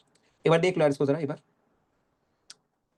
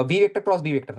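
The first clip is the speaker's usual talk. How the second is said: slow, word by word; slow dictation; much slower than usual. Shown as a demonstration. Teacher repeating the formula for the class, slowly. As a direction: drag the formula out for students. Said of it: "teacher walking through cross product".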